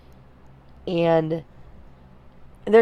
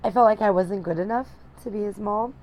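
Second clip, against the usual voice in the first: holding back tears; 3 semitones higher, 7 dB quieter than usual. Real, not acted. New mom confessing postpartum struggles to viewers, close to tears. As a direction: voice straining as tears come, long pauses.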